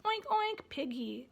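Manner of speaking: high oink, oink; playful piggy noise. Shown as a demonstration. Parent reading Silly Sally, in a playful oinking voice. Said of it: "I might just turn the pages and say".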